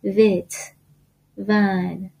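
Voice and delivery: "وت" and "ون" begun with a relaxed v sound; loose V. Shown as a demonstration. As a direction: keep the v loose in "وت", "ون". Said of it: "خیلی باید شل بگید". («وت» و «ون» با صدای شلِ v)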